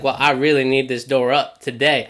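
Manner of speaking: lightly put-on southern accent. Retelling a customer who needs his door fixed, southern accent. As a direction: imitate the customer with a slight southern twang. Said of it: "I don't know why I'm using a southern accent".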